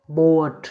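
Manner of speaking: बोअट with ओ followed by short अ; split vowel demo. Shown as a demonstration. Teacher gives an example word, saying बोअट with ओ gliding into अ. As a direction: sound both vowels, ओ-अ, in बोअट. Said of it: "इन दोनों का उच्चारण होगा ओ अ".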